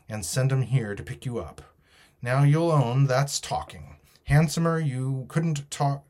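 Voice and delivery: pirate bargaining, slightly lifted voice; lightly voiced pirate leader. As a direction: lightly act a sea rogue making an offer. Voices Silver's offer.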